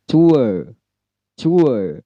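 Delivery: tour as too-uh, no R; British tour, R dropped. Shown as a demonstration. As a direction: glide tour out British style. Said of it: "dalam British itu ue".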